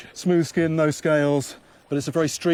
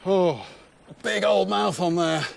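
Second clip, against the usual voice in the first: excited; 8 semitones higher, 5 dB louder, slower than usual. Real, not acted. Struggling with heavy fish.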